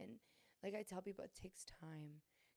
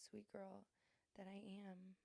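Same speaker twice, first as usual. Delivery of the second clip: whispered, much softer; 10 dB quieter, slower than usual. Real, not acted. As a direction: breathe the words out shyly. Confessing she is a sweet girl.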